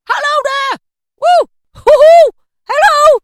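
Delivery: high, loud, whooping elation; giddy laughing joy. A narrator's reading. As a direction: shout it out between bursts of laughter. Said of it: "laughing and crying in the same breath".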